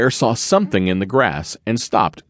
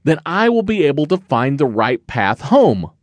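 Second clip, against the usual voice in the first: put-on lightly raised, young cub voice, a bit winded; a small bear puffing as he climbs; hint of a tired little cub; 5 semitones higher than usual. Little Bear's voice, narrator reads.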